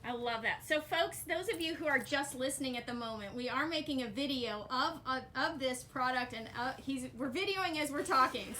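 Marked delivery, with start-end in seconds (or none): 3.3-8.5 talking through a face mask; muffled speech behind a mask. Real, not acted. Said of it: "I'm talking through my mask".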